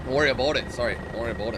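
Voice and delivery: "about" rounded to "aboat", Canadian style; exaggerated Canadian accent. Canadian commando apologizing to his victim, hammed-up Canadian accent. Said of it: "like a Canadian special".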